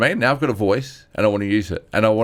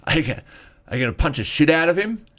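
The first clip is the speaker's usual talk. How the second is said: mock tough guy; 6 semitones higher, faster than usual. Dude asking about a fight.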